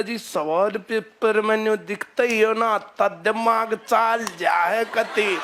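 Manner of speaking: slow, drawn-out exasperated complaint that ends in a yell; teacher imitating a frazzled candidate in the exam hall; mock panicked student. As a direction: act out a flustered exam-taker losing it. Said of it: "बोला".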